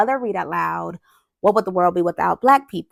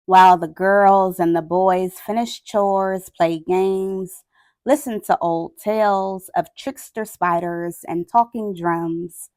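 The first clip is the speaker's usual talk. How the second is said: grave picture-book reading with long pauses; measured, sombre storytelling; solemn story narration. A narrator's reading. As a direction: read it aloud gravely, letting each phrase hang. Reads picture book aloud.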